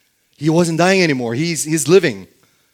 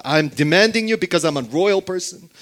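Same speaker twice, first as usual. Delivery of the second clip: higher, louder pretend demand; put-on pushy demand, pitched up; mock demanding; 4 semitones higher, 5 dB louder, faster than usual. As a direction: insist as if entitled, as a counterexample. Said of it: "Nothing like that".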